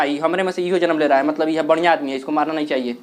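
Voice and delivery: low, softening voice of a cell relenting; lightly voiced white blood cell. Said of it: "WBC को समझ में आता है".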